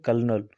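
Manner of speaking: "कर्नल" as kur-nul, two syllables; correct pronunciation. Shown as a demonstration. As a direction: silent first L in "कर्नल", said as r. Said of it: "इसको पढ़ा जाएगा कर्नल". ("कर्नल", दो हिस्सों में सही उच्चारण)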